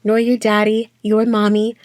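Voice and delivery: punchy spoken-word put-down; dismissive taunt. Acted. Voice dismissing baby blip's family, taunting and emphatic. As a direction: throw it at them in short, emphatic bursts.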